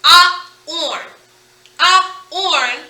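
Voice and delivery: AH and ORN loud, split apart; loud, separated AH-ORN; vowel sounds only. Shown as a demonstration. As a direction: popcorn without its consonants, AH then ORN. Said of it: "because we hear the".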